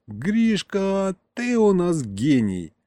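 радостный выкрик, чуть медленнее; выкрикни похвалу другу, растягивая; орёт восторженно. Acted. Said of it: "а потом заорал". (рассказчик орёт Гришке: восторженный выкрик)

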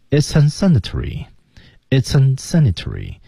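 it's unsanitary run together as one smooth slow chunk; slow linked it's unsanitary; linked sounds. Shown as a demonstration. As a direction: link it's into unsanitary slowly. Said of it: "连起来了".

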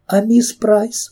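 высокий медленный крик не своим голосом; крикни в ужасе, растягивая; отчаянный выкрик. A narrator's reading. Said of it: "выкрикнула Кэрри не своим голосом". (выкрик не своим голосом)

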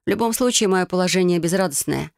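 ordinary delivery

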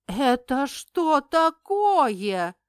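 громко, выше и медленно; возмущённо кричит на фамильяра; гневный рёв. A narrator's reading. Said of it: "взревела я". (взревела)

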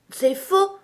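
high, loud outraged denial; indignant protest. A narrator's reading. Alice refusing to be just a dream, indignant. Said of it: "protesta Alice d'un ton indigné".

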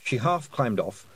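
ordinary delivery, nothing marked

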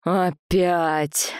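whispered grumble; grumbling. Acted. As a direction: grumble it under your breath. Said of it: "заворчал Андрей".

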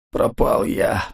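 breathless whispered moan. Acted. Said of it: "стонал Ковальский". (стонущий шёпот)

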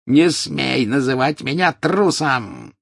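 slow, high, furious cry; furious anguish. A narrator's reading. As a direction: scream out the pain. Snape enraged, anguished.

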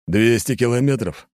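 a touch of dismissive confidence; scoffing snort. Acted. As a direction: scoff lightly at the very question. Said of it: "фыркнул Аршавин".

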